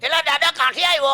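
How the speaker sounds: high-pitched, chatty Surti dialect. Acted. Surti local asking a visitor where he's from, high Surti dialect. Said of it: "pure સુરતી ભાષામાં મને પૂછવા લાગ્યો".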